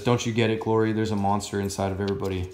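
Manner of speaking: lightly voiced monster, fast at the end; a hint of a brooding monster telling his girlfriend; Clayface voice. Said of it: "that's my Clayface voice".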